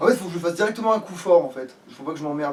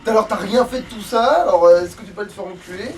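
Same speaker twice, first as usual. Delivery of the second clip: mildly louder, slowed taunt at the enemy; angry insults; 2 semitones higher, 5 dB louder than usual. Real, not acted. Player cursing the game enemy, mock angry taunt. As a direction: snarl it at the boss, half joking.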